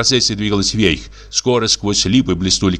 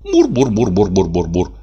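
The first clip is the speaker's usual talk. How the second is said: purring hum. Acted. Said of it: "замурлыкала".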